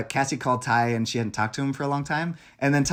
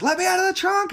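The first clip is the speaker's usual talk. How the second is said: retold yell. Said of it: "And he's, like, yelling".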